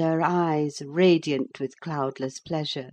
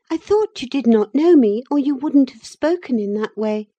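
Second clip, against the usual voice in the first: put-on higher, louder bright young girl; eager girl Cathy; 9 semitones higher, 8 dB louder than usual. A narrator's reading. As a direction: call out like a lively girl on the moor. Cathy answering Heathcliff.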